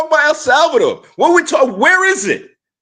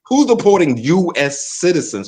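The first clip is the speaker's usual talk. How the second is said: incredulous; 5 semitones lower, slower than usual. Shown as a demonstration. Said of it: "how does this sound?".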